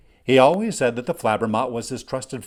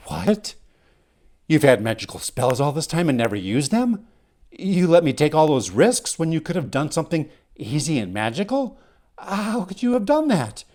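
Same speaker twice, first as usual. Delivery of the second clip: indignant, pitch climbing to a high final question; acted outrage, rising as it goes; incredulous protest; 4 semitones higher, 3 dB louder than usual. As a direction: protest in disbelief at being kept in the dark. Indignant reaction to unused spells.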